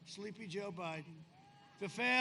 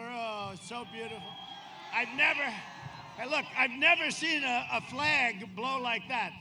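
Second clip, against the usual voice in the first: amazed; 6 dB louder than usual. Real, not acted. Marveling at flag.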